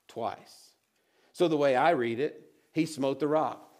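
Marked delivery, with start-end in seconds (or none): 0.1-0.7 "Twice" whispered, much lower and softer; hushed emphatic echo; whispered repeat. Shown as a demonstration. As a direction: breathe the word "Twice". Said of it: "repeats twice".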